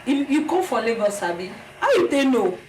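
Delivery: lightly mimicked Benin way of talking; imitated Benin accent. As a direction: quote schoolmates with a touch of Benin accent. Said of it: "You see the way they, they talk".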